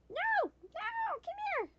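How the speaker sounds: very high squeaky plea; pleading pet voice. Real, not acted. Player calling Nika back for cuddles, high squeaky pleading.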